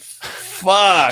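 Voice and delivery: loud, high exclamation of alarm; retold shocked outburst; stunned swearing. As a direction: blurt it out, drawn out and appalled. His stunned reaction, retold.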